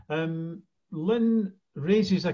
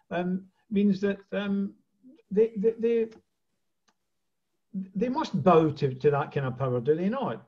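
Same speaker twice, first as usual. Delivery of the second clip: muffled; 4 semitones higher than usual. Real, not acted. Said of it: "your voice is a bit muffled".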